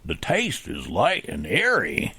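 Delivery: slow gravelly cowboy read; slow cowboy drawl. Shown as a demonstration. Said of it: "You have to say".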